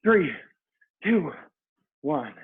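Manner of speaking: aerobics instructor shouting. Real, not acted. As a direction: yell them through the last round. Final round push.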